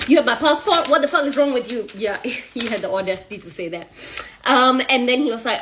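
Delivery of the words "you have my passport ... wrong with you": higher, louder indignant demand; acted outrage. Husband learning wife took his passport, outraged. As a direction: throw it back in disbelief.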